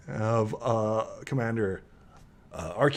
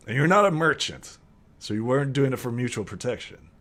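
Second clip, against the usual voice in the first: incredulous questioning; 3 semitones higher, 3 dB louder than usual. Acted. Guard doubts and questions the newcomer.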